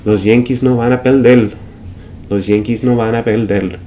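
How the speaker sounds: Puerto Rican perder said peldel; Puerto Rican accent. Shown as a demonstration. Teacher imitating a Puerto Rican Yankees fan. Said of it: "pronounce the R ... like the L".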